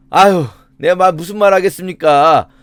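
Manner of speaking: mock weary surrender to pressure; resigned sigh. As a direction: give in with a put-on sigh, as if browbeaten. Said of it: "막 윽박질르듯이 말하니까 욥이". (체념한 척 한숨 섞인 말투)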